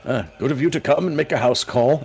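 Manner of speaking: put-on flustered old man stammering to the gnome. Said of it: "the old man's like".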